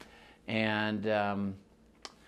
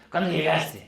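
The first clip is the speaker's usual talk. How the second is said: friends asking; 6 semitones higher, 5 dB louder, faster than usual. Retold or imitated. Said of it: "They always ask".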